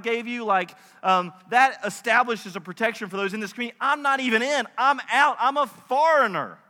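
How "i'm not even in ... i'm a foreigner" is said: higher, emphatic objection; insistent protest. Acted. Ruth insisting she is outside the family, insistent protest. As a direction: press each short phrase, pitch raised. Ruth's protest acted by preacher.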